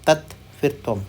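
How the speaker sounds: तत् then त्वम, broken apart; syllable by syllable. Shown as a demonstration. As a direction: break the word into तत् and त्वम. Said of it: "अब इसको तत्वम नहीं बोल रहे".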